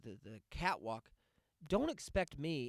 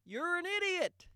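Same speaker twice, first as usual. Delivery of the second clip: scornful insult; 5 dB louder than usual. Real, not acted. Scorning the fake gusher.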